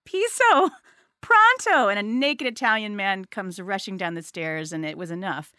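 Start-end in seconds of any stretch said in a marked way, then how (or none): 0.0-1.9 high, rising mock yell, each word pitched higher; laughing, hammed-up yell up to a stranger about the flood; retold yell. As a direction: call the words up the stairs, climbing higher with each. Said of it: "go up the staircase ... and yell".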